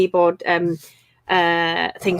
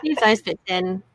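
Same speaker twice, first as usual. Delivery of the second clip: slow and emphatic; slower than usual. Real, not acted. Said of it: "repeats advice".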